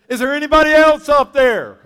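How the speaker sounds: high loud panicked call upward; comic high yell; desperate plea. Acted. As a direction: shout it, hoping for another answer. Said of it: "And he says".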